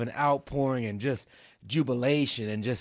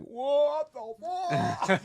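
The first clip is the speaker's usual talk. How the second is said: laughing disbelief; much slower than usual. Retold or imitated. Stepping off boat, legs fail.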